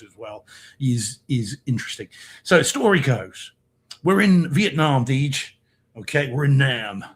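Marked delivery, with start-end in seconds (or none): 6.3-7.0 British speaker attempting American; bad American accent. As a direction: put on a hammy American accent. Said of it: "best bad American accent".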